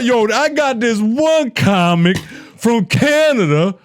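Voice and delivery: a hint of a Canadian accent, put on; imitating a Canadian comic, lightly; mock Canadian accent. Podcast host mocking a Canadian comic, in a light Canadian accent. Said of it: "I turned Canadian like a motherfucker".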